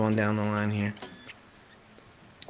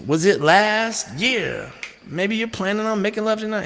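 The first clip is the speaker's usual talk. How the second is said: singer's spoken line; 9 semitones higher, 3 dB louder than usual. Retold or imitated. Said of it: "He's like".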